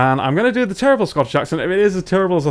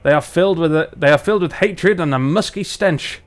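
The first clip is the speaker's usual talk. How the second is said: lightly done northern English dwarf; brusque answer in a put-on Barnsley accent; 3 dB louder than usual. Dwarf brushes off questions about the feud, light Barnsley accent. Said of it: "let's do our dwarves from Barnsley".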